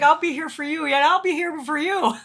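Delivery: mock tearful comforting. Two crying contestants consoling each other at camp, mock tearful comforting. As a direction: imitate an over-emotional promise.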